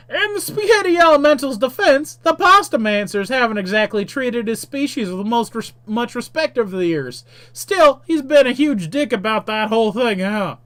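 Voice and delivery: high, very loud monster character; monstrous man voice. Acted. Monster complains about the Pasta Mancers, loud monstrous voice. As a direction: belt it out as an indignant monster. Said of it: "Monstrous Man, well, tells me".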